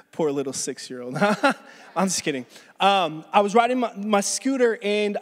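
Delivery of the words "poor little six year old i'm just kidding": chuckling through a joke; laughing. Real, not acted. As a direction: laugh while teasing.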